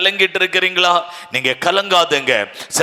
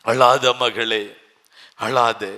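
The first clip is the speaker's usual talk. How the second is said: tender comfort; 4 semitones lower, much slower than usual. Acted. Jesus voiced tenderly to mother.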